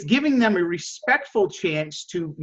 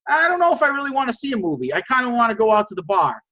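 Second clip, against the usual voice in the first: higher-pitched, mildly reluctant reply; acted reluctant friend; 5 semitones higher than usual. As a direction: gently push back as the hesitant friend. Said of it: "your friend says to you".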